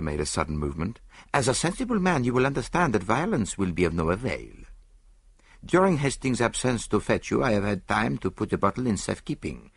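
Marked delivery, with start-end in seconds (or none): 1.3-9.7 put-on measured foreign-accented detective; composed, precise Poirot; Poirot, calmly explaining.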